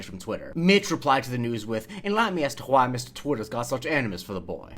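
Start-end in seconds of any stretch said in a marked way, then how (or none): 2.0-4.7 put-on broad, drawled Deep South accent; Deep South tobacco CEO. Host reading the viral tweet aloud, broad Deep South accent. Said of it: "me saying this over and over again".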